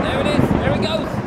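high, loud thrilled cry; excited shout. Real, not acted. Guide cheering the lightning effect, loud and excited.

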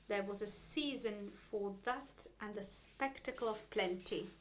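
measured, continuous literary recital; deliberate poetry-reading cadence; poem reading. Acted. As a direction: read the poem aloud, phrase by phrase. Reads a poem aloud.

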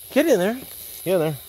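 loud, high shout at the dog; shouted command. Real, not acted. Hunter yelling to send his dog in, a loud shout. Urging the dog onto the hog.

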